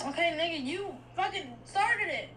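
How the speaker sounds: heated retort. Real, not acted. Late-night bicker on the phone.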